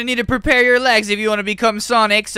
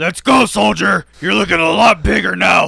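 drill sergeant. Acted.

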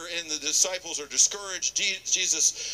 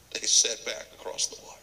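storyteller whisper; 7 semitones lower, faster than usual. A narrator's reading. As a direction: whisper the line. Narration dropped to whisper.

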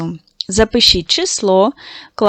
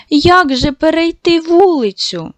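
put-on higher, anxious child voice; worried little boy; 7 semitones higher than usual. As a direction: ask it like a lost, worried boy. (схвильований хлопчик питає, як перейти вулицю)

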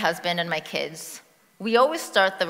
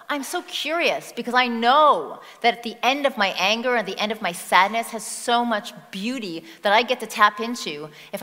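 welcoming host; 3 semitones higher, 5 dB louder than usual. Pretend. Speaker inviting her anger in like a guest, welcoming. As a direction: open the door wide to an old friend. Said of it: "Imagine they're like a friend that's come from a far-off place and say".

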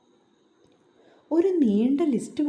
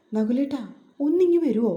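raised call across the house; 2 semitones higher, 4 dB louder than usual. Acted. Ammu calls Nakulan from the bedroom, raised call. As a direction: call him from the next room. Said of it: "അമ്മുവിൻ്റെ വിളിയൊച്ച കേട്ട്".

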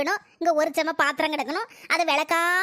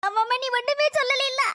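higher, mocking sarcasm; sarcastic retort; 5 semitones higher than usual. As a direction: sneer it back at her. Mother-in-law retorts in quarrel. (கிண்டலான ஏளனக் குரல்)

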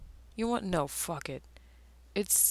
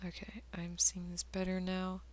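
whispering; 5 dB quieter than usual. Real, not acted. Muttering to himself while drawing.

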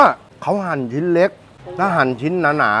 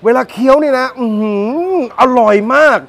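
excited; 9 semitones higher than usual. Real, not acted.

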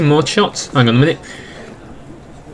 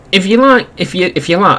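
high, lilting sign-off voice; playful sing-song outro voice; silly put-on voice; 5 semitones higher than usual. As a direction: slip into a raised, exaggerated presenter lilt. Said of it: "I'm doing that voice again".

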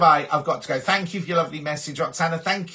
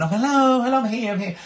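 voicing the cat; 8 semitones higher than usual. Cat voiced sauntering in.

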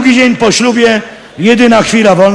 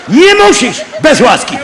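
offended shout; 4 semitones higher than usual. Acted. Acted marital quarrel, shouting.

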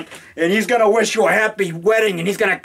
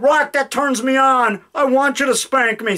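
a lightly raised, coy caller; mock fan voice; 4 semitones higher than usual. Fan asking the actor for a spanking, lightly hammed. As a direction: tease it out like a cheeky prank caller. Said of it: "he said".

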